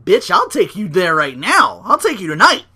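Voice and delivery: mock tough guy calling him out; tough challenge. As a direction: square up and dare him. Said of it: "he's like".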